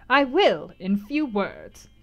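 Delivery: lightly voiced gypsy reading fortune; gypsy fortune-teller. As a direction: declaim the reading like an oracle. Gypsy's long reading of Jane.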